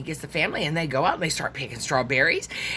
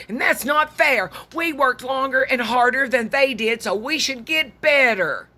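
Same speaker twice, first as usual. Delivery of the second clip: grumbling complaint; 5 semitones higher than usual. Acted. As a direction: complain like cheated workers. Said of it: "they started grumbling".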